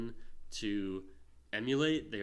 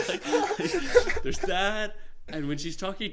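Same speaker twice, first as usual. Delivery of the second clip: laughing; 11 semitones higher, 10 dB louder, slower than usual. Real, not acted. Laughing after mom impression.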